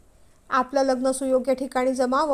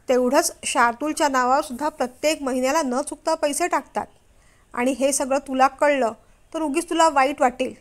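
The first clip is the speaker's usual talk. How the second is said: furious scolding. Acted. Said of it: "mister जास्तच भडकले".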